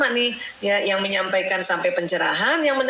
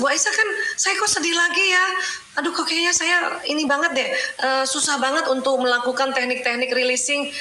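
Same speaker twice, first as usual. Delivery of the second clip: higher, whiny voice of a discouraged mother; fretful mother; 5 semitones higher than usual. Retold or imitated. Mother complains to Bu Aisyah she still feels sad, higher whiny plea. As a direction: play the worried mum asking her teacher.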